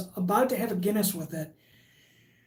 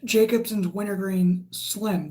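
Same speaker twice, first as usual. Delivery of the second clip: slow, deliberate; slower than usual. Real, not acted. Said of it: "I would suggest you try".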